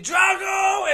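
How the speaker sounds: high, loud drawn-out yell; long, high-pitched warning shout; imitated scream. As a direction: mimic screaming a name in alarm. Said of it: "Sarah starts screaming".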